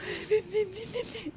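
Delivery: imitated sulky kid's huffs; high, quick mock-pouting noises; pouty huffing. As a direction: huff like a pouting little child. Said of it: "they just sit there pouting".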